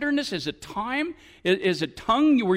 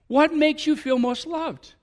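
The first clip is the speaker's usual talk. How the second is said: emphatic question; 7 semitones higher, 4 dB louder, slower than usual. Shown as a demonstration. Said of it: "ask each other this question".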